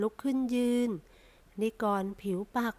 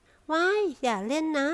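high, loud startled shriek; a startled wife shrieks at her husband's prank; shrieking protest; 6 semitones higher, 5 dB louder, slower than usual. A narrator's reading. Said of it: "ประไพเอตโลลั่น".

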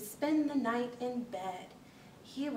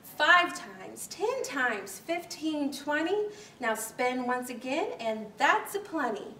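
dance caller counting. Acted.

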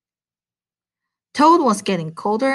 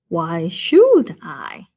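stubborn turtle; 2 semitones lower, 3 dB louder, much slower than usual. Acted. The turtle refuses to leave.

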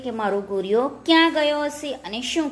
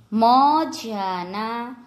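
મજાના very slowly, in separate syllables; slow word demonstration; much slower than usual. Shown as a demonstration. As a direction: stretch out મજાના for learners. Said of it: "જોડણી ઉપર જોજો".

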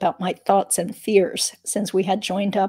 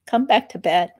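lightly voiced sleepy husband, louder on back; cute coaxing husband; 5 dB louder than usual. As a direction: coax her back to bed, sweetly. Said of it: "trying to be as cute as he could be".

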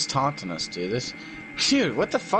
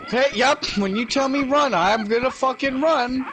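scared horror game streamer; 6 semitones higher than usual. Real, not acted. Ready to flee in horror.

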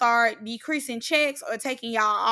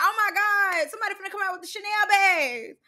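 high, bubbling excitement; excited anticipation; 8 semitones higher than usual. Retold or imitated. Reactor replaying hopes of Chanel bags, high excited gushing. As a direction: squeal as if expecting designer presents. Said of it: "I'm like".

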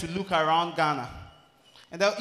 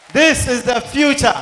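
1 slow proclaiming; 6 semitones higher, 11 dB louder, slower than usual. Real, not acted. Hypes show to crowd.

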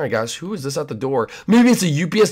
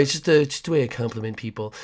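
creepy neighbor; 3 semitones lower, 5 dB quieter, faster than usual. Acted.

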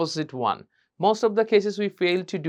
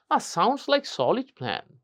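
slight smile; 4 semitones higher, 3 dB quieter, much slower than usual. Shown as a demonstration. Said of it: "একটু হাসি দিতে হবে".

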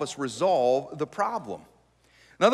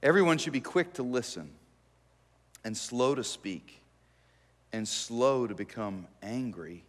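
slow soft repeat; 6 semitones lower, 5 dB quieter than usual. Shown as a demonstration. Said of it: "verse repeated slowly".

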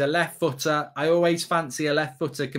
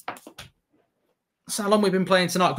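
slow emphatic repeat; 2 semitones higher, slower than usual. Shown as a demonstration.

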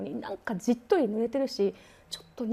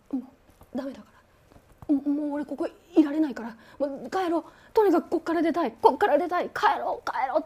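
rising into a louder, higher plea to get out; panicked pleading; 4 semitones higher, 4 dB louder than usual. Retold or imitated. Aさん back from the roof begging friends to leave, panicked. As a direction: beg them to leave, shaken.

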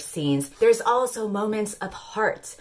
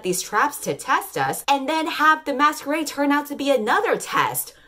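sarcastic, rising exasperation; hammed-up gasp of shock; mock dismay; 3 semitones higher than usual. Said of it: "They're like".

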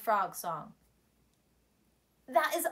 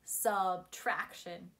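slow, clear teaching word; slow model word; 7 semitones lower, 5 dB quieter, slower than usual. Shown as a demonstration. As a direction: say it slowly for the kids to repeat. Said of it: "Can you say that with me?".

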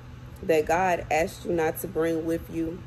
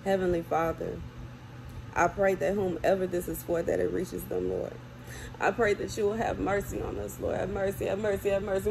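quiet prayer; 4 dB quieter than usual. Real, not acted. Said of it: "I'm going to pray".

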